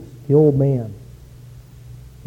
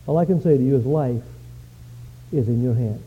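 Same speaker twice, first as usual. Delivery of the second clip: put-on wise old man; 3 semitones lower, 6 dB quieter than usual. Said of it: "The old man said".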